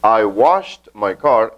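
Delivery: slow, deliberate English example; teacher reading the past-tense example slowly; slow model sentence. Shown as a demonstration. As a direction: stretch each word for learners. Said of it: "vamos a agregarle el pasado aquí".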